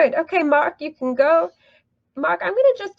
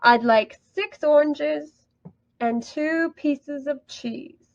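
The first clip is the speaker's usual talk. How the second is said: "I'd like six oranges" then "cheese" dropping down at the end, slow; falling intonation demo; slower than usual. Shown as a demonstration. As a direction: model the fall on "cheese" for learners. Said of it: "We go down in intonation".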